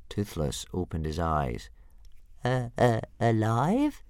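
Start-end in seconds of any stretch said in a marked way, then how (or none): 2.4-4.0 high stammered question; eager little dragon. A narrator's reading. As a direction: stutter hopefully in a creature voice. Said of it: "he said eagerly".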